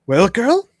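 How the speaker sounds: high impatient witch prompt. Acted. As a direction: prod her like an old witch. Witch prods Lyra.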